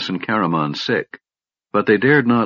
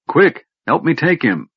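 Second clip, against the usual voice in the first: bellowing; 8 semitones higher than usual. A narrator's reading. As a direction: bellow it out, calling others in. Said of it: "Caramon bellowed".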